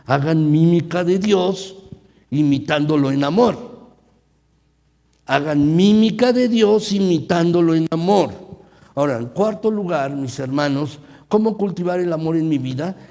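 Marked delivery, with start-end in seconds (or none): 0.1-3.7 proclaiming the verse. Shown as a demonstration. 5.2-8.3 booming preacher's call; loud proclamation. Shown as a demonstration. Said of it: "repeated verse".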